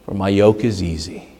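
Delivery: hushed, gentle reading; tender scripture reading. Acted. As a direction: offer the verse gently to the weary. Reads gentle invitation verse.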